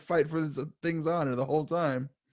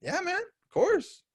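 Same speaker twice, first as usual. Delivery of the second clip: eager agreement; slower than usual. Retold or imitated. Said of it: "And I was like".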